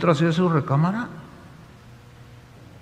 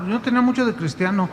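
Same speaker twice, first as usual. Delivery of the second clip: normal talking voice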